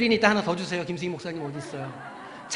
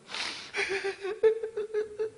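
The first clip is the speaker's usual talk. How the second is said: very high, soft put-on whimper; high thin fake sob; mock weeping; 4 dB quieter than usual. Shown as a demonstration. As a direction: act out Mary's quiet crying. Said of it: "마리아가 그렇게 울었어요".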